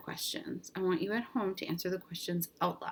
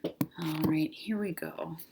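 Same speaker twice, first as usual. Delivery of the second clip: whisper; 2 semitones lower, slower than usual. Real, not acted. Muttering while opening teacher book.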